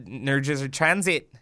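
muddled attempt at a New Jersey accent; botched Jersey accent. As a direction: badly fake a Jersey accent, jaw dropped. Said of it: "I don't know what that accent was".

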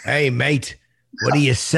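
mock British accent Statham; Jason Statham. Host answering Dredd impression as Statham, put-on British accent. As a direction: greet him with a put-on British "mate". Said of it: "I'm Jason Statham".

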